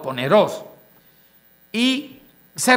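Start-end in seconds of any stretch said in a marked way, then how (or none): 0.0-0.6 poneros with the stress on the O, po-NE-ros read as po-ne-ROS is wrong, say the O syllable strongest. Shown as a demonstration. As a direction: lean on the O in poneros. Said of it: "con el acento en la O".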